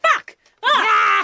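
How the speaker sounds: high-pitched comic scream; mock panic. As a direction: shout it out in pretend panic. Acted panic at thirty characters.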